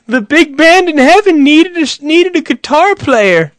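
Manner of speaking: high, drawn-out proclaiming voice; mock consoling platitude. People explaining a rock star's death, high mock-pious proclamation. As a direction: proclaim it high, stretching the words. Mocks stock sayings after a death.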